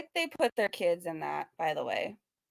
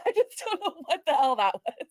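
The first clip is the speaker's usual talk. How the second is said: exasperated repeat; 5 semitones higher, 4 dB louder than usual. Real, not acted.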